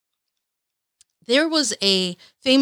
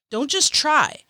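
put-on high, excited quoting of her old self; hyped-up past self; 5 semitones higher than usual. Vlogger mimicking her younger self's hype, pitched high. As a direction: gush over the quote like a fan. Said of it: "It was like".

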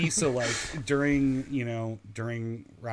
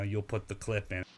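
put-on light Brooklyn accent, boastful; 4 dB quieter than usual. Host quoting the defendant in a light Brooklyn accent. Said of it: "says in his Brooklyn accent".

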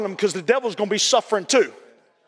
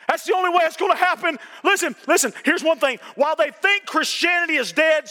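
raised, urgent pulpit voice; impassioned preaching; 5 semitones higher than usual. Real, not acted. Preacher urging people to show up for Christianity, fervent preaching. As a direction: press the congregation with rising fervor.

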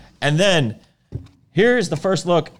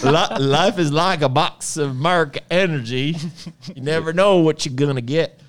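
a hint of Forrest Gump. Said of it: "Doug is Forrest Gump".

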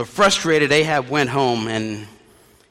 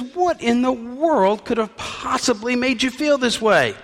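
high, concerned wife's voice; wife's question; 9 semitones higher than usual. Acted. Wife finds the king sulking in bed, high and concerned. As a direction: ask it up high, like a fussing wife.

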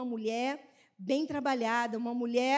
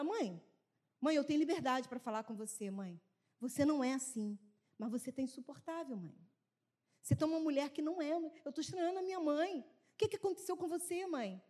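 soft daughter's plea; 8 dB quieter than usual. Retold or imitated. Voicing daughter's complaint.

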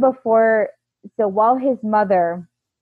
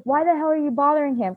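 lightly voiced higher-pitched scold; scolding mother-in-law; 6 semitones higher, faster than usual. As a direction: imitate an indignant mother-in-law. Mother-in-law scolding her, retold.

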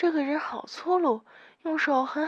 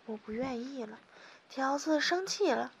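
ordinary delivery

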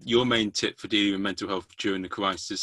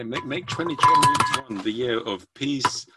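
grand slogan; slower than usual. Acted.

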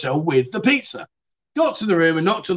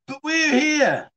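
slow, drawn-out and higher; slow, pointed reply; 9 semitones higher, much slower than usual. Retold or imitated. Answering her excuse about the boyfriend, slow pointed reply. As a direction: spell the obvious out to her.

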